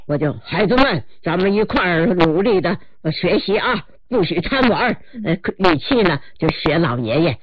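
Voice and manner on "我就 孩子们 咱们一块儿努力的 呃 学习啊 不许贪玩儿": 老爷爷语气. Shown as a demonstration.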